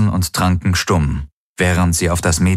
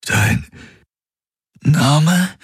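higher, pained question; tormented; 10 semitones higher than usual. A narrator's reading. Confused Galen repeats Kirai's question, pained. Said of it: "wiederholte er gequält".

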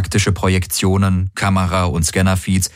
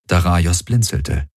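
ordinary delivery, nothing marked

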